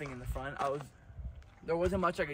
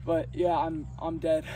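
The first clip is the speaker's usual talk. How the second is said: out of breath. Real, not acted. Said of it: "It's hard to breathe up here".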